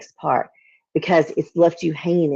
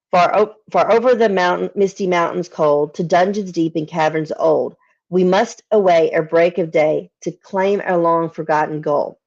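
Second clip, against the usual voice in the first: poem reading. Acted. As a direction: read it like an old ballad, savouring each line. Reciting fifth stanza.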